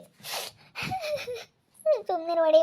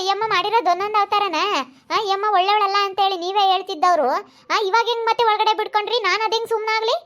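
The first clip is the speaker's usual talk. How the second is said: angry accusation; 4 semitones higher than usual. Acted.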